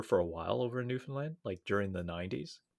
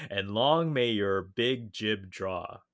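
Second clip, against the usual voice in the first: put-on Newfoundland accent; slower than usual. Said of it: "in a thick Newfoundlander accent".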